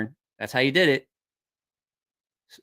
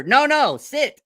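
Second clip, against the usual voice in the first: higher, louder retold order; firm command; 9 semitones higher, 5 dB louder, slower than usual. Drunk buddy stopping a woman getting up, mock firm command. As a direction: imitate cutting off someone's escape.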